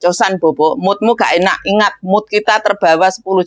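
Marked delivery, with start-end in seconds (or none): 0.0-0.7 gentle, easy bedtime coaxing; soft and pleasant. Shown as a demonstration. Maid gently tells the child to sleep, soft. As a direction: settle the child kindly. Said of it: "Nadanya lebih enak".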